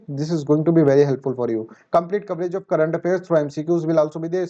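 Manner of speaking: slow, careful English read-out; measured announcement pace; slow promo read. Acted. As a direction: read each word of the promo slowly. Reads English promo lines slowly.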